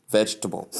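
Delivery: vegetable in three syllables, VEJ-tuh-bul; correct pronunciation. Shown as a demonstration. Teacher models the word vegetable for learners, correct three-syllable pronunciation. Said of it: "when you pronounce the word".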